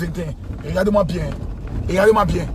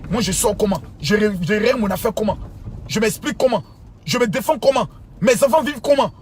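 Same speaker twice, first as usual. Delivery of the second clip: rising indignation; 2 semitones higher than usual. Real, not acted. Questions rhétoriques montant en colère.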